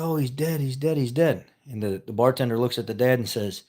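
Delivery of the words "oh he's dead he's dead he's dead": high, lightly acted wail of dismay; mock lament. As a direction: play a distraught dad in a joke. Joke dad mourns his son.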